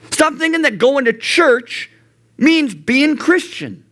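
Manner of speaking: high, slow, stern inner rebuke; God rebuking him. Retold or imitated. God correcting Jeff, slow, high and stern. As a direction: call yourself out like God speaking to you. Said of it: "resonated in my heart of going".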